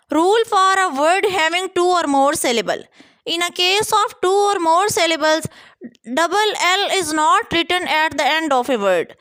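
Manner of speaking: spelling rule read slowly for students; slow dictation. Shown as a demonstration. Teacher to students reading the rule, slow dictation. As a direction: dictate each word slowly and evenly.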